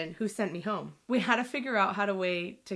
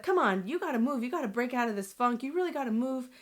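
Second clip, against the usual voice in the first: higher-pitched retold motherly urging; urgent coaxing; 5 semitones higher than usual. Mom coaxing her daughter out of a funk, urging. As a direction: push her on, imitating an insistent mom.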